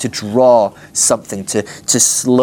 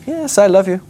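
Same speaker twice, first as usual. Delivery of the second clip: exasperated insistence; 8 semitones higher than usual. Acted. Peter pressed a third time.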